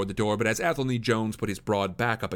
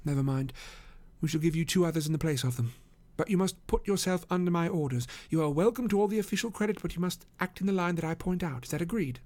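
commanding detective; 8 semitones higher than usual. Acted. Holmes sets his terms.

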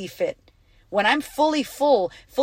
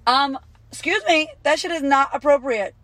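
indignant; 5 semitones higher, 4 dB louder than usual. Real, not acted. Indignant reaction to listener's message.

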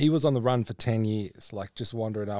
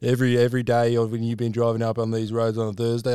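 bloke rant; 10 dB louder than usual. Retold or imitated. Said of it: "he went on this rant going".

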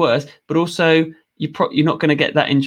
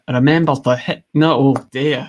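louder, faltering attempt at Scottish; Scottish accent; 5 dB louder than usual. Shown as a demonstration. Guest put on the spot by host, hesitant Scottish accent. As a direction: have a shaky go at a Scottish accent. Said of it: "give us a blast of your Scottish accent".

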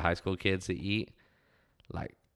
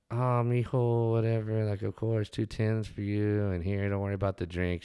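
Tola; 3 semitones higher than usual. Acted. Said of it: "she'd be like".

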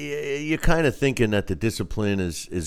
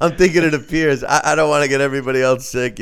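sick voice; 5 semitones higher, 5 dB louder, faster than usual. Retold or imitated. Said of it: "everybody can do the sick voice".

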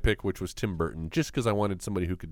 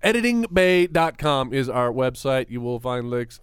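slow, even robot voice; 2 semitones higher, 5 dB louder, slower than usual. Pretend. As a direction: speak like a robot. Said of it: "I am talking like a robot".

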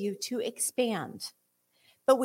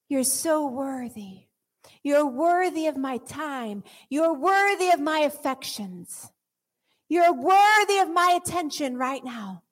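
tender worship; 3 semitones higher, slower than usual. Acted. Soft worship after the peak.

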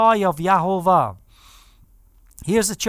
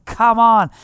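crowd cheer; 3 semitones higher, 7 dB louder than usual. Retold or imitated. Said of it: "the cheers of the people saying".

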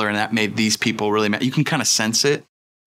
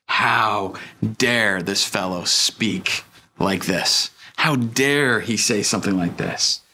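slow, drawn-out mild indignation; understated, deliberate outrage; indignant grumbling; 3 semitones lower, slower than usual. Acted. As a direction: grumble it slowly in offence, word by word. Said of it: "They grumbled, some of the legal experts".

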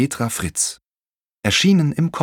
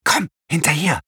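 put-on girl calling out; 9 semitones higher than usual. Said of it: "rief Sophie".

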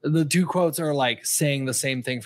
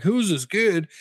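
lightly mocked baffled worker, higher pitch; 6 semitones higher than usual. Worker asks about the kid, mock bafflement. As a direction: voice a puzzled worker with the pitch lifted. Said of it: "the worker is kinda like".

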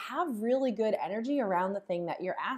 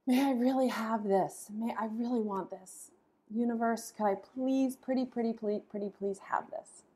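begging from lack. Shown as a demonstration. Teacher acting out asking the universe from lack, mock pleading. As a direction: beg the universe like a child who has nothing. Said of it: "my energy is really stemming from the fact that I don't have this".

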